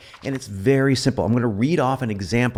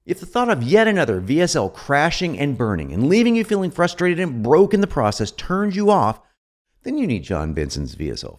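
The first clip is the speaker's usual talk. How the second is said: building, higher dramatic ad read; ad copy read; 3 semitones higher than usual. Shown as a demonstration. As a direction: read it like a charged sales pitch. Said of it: "Here we go".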